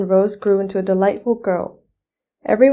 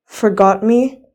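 louder, mild storybook scream; a hint of a furious shriek; 5 dB louder, slower than usual. A narrator's reading. Fairy outraged at being forgotten, mild mock scream. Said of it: "Nightshade screamed".

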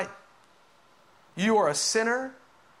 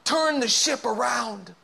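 raised, urgent voice with drawn-out words; insistent, slow-hammered warning; raging plea; 3 semitones higher, slower than usual. Acted. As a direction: plead forcefully, as if fighting for someone's soul. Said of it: "the Holy Spirit's raging war against your soul".

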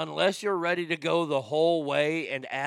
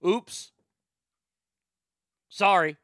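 higher, louder sheepish oops; 4 semitones higher, 5 dB louder, slower than usual. Pretend. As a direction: blurt a guilty sorry. Mock apology after the oops.

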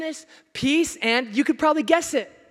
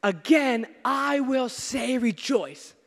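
proclaiming Paul's command; 3 dB louder, much slower than usual. Retold or imitated. Preacher booming Paul's command to the church. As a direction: ring out rejoice, loud and slowed. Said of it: "Paul says".

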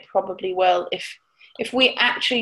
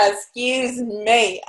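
recovering from choking; much slower than usual. Real, not acted. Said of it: "I'm choking".

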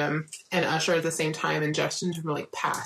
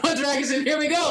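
high eager cheer, welcoming the plunge; excited cheer; 8 semitones higher than usual. Retold or imitated. Fan cheering on joining a band's fandom, eager. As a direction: throw yourself in with a cheer. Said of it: "was like".

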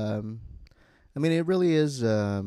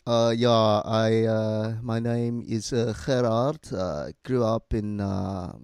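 lightly put-on South African accent. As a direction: talk in a subtle Johannesburg accent. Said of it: "that's my South African accent".

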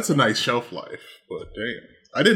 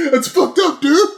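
mock disgust; 12 semitones higher than usual. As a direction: act out cannibals recoiling in disgust. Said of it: "And they're like".

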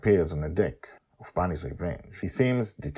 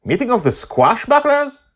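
put-on girl's voice; 9 dB louder than usual. Daughter voiced, questioning.

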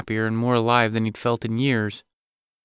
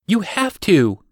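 higher and louder, pointing insistence; insisting; 9 semitones higher, 5 dB louder, slower than usual. A narrator's reading. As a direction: jab the words at him. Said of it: "Audrey repeated as she pointed".

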